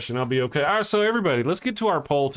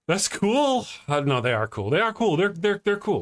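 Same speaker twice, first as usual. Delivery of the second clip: higher, overdone cool; mock enthusiastic; 6 semitones higher than usual. Real, not acted. Insisting spiders are cool, mock eager and higher. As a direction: oversell how cool they are.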